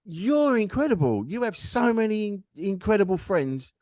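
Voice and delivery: high, insistent praise; heartfelt amazement. Retold or imitated. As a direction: marvel at them, stressing the praise. Retold heartfelt reply to wife.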